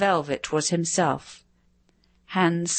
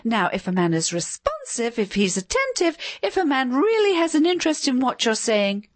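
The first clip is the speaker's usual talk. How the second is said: shrill nagging wife; 7 semitones higher than usual. A narrator's reading. Pamela continues shrill.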